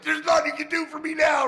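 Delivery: a high, loud courtroom yell; furious shout. Retold or imitated. Convict hollering at the probation officer in court, full shout. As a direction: yell it across the room.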